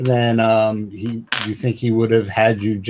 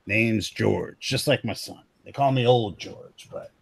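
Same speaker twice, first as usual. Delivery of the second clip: lightly voiced American hick old-timer; American hick accent. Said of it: "go with total American hick here".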